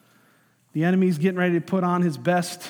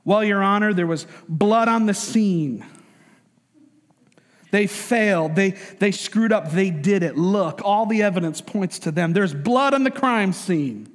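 Southern prosecutor; slower than usual. Acted. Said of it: "the devil is bringing up this very convincing, evidence-laden case".

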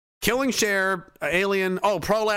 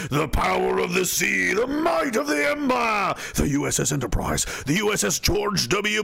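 epic promo voice. Pretend.

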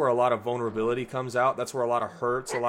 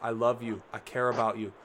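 gently reassuring, a little softer; tender God; 5 dB quieter than usual. Retold or imitated. God comforting a frustrated believer, softly reassuring. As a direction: speak as a loving father comforting. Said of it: "He's like".

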